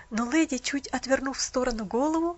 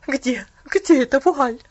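muffled; 10 dB louder, slower than usual. Acted. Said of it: "глухо проговорила она".

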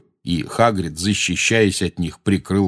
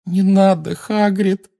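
high-pitched pleading whimper; pleading moan; 12 semitones higher, slower than usual. A narrator's reading. Hermione begging Hagrid not to draw attention, moaning. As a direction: moan it, begging him to stop. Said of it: "простонала Гермиона".

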